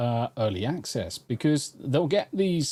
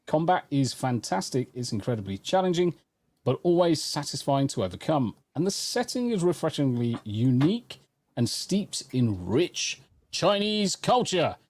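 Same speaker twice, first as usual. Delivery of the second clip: emphatic, scripted reviewer delivery; polished written-review cadence; review read-aloud; 2 semitones higher than usual. Acted. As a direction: read out a game review with swooping intonation. Reads a game review aloud.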